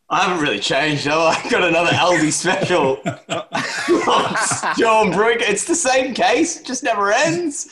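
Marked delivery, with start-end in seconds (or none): 4.8-7.7 mock exasperation. Real, not acted. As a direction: lament it in a raised voice. Mock complaint about endless beer case.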